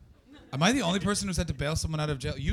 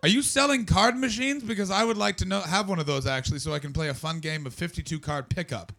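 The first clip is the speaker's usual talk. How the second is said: mock farmer rant; 8 semitones higher, 7 dB louder than usual. Farmer listing buyers.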